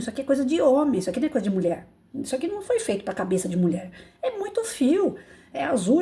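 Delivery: half-joking telling-off of her late husband; mock scolding. Widow scolding late husband over computer wires, mock scolding. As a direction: scold him playfully for leaving her the wires. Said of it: "E eu brigando com meu marido".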